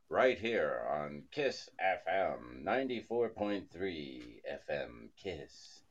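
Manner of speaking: slow smarmy DJ voice; radio DJ voice. Retold or imitated. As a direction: mimic a pretentious radio DJ. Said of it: "it's like".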